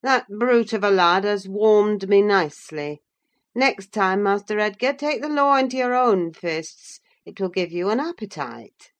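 jovially rough; Hindley rallying Edgar; hearty master. Acted.

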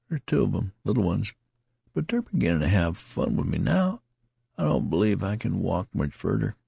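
lightly voiced country soldier; tattered soldier. A narrator's reading. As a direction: play the rambling wounded soldier. Tattered man speaking.

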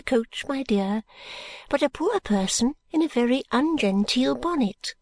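put-on fluttery elderly lady, hushed and high; Miss Flite voice. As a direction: lean in and confide like a dotty old lady.

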